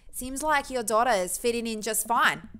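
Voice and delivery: British attempt gone Australian; loosely Australian neighbour voice; accidental Australian. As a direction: slip into a rough Australian accent. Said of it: "he's Australian".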